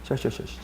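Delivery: 셔셔셔 whispered with a slushy sh; 셔셔셔 breathed as unvoiced shuh; whispered sh sounds. Shown as a demonstration. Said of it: "쇼쇼쇼가 아니라고".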